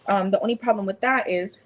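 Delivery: talking with food in mouth; words around a bite; mouth full. Real, not acted. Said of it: "excuse me".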